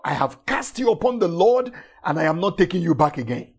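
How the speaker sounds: rattled off fast as a firm retort; fast quoted declaration. Shown as a demonstration. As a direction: fire it back quickly at the worries. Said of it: "you are reminding them that".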